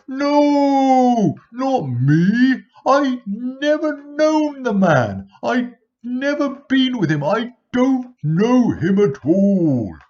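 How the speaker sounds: very high, loud, slow desperate cry; frantic denial. Acted. Peter's third denial to servants, very high loud frantic. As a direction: deny it with everything, near hysteria.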